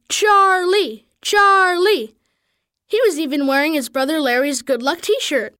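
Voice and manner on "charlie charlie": higher-pitched cheer, lightly called out; mild yelling. A narrator's reading. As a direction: chant the name like an admiring crowd. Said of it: "They'd be yelling".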